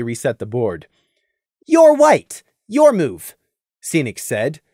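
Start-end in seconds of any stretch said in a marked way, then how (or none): 1.7-3.4 loud, challenging tone. A narrator's reading. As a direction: throw down the gauntlet. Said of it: "a challenge in his tone".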